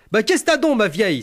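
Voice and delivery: high, bewildered rustic man; puzzled country husband. Retold or imitated. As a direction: ask the wife, baffled. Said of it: "s'interloqua-t-il".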